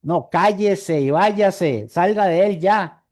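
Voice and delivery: slow, flat-out order to get out; command, no negotiation; clipped order to leave now; firm command. Retold or imitated. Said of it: "Jesús no decía".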